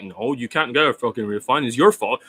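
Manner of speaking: mock a defensive seller turning down a customer; blame-shifting coach. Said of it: "This is what he says".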